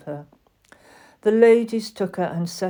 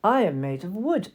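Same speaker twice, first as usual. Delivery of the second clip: with dignity. Acted. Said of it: "answered Totty with dignity".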